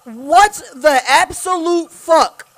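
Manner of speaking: drawn-out stunned shout; slow shocked disbelief. Real, not acted. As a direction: stretch it out in shock. Shocked after jump scare.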